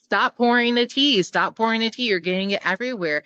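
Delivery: imitating a flustered scholar yelling at the monk; upset scholar. Retold scholar scolding the monk over spilled tea, mild mock yell. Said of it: "the scholar is getting upset".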